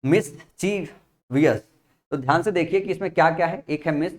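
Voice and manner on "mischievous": slow, careful pronunciation. Shown as a demonstration. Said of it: "it's not mischievous".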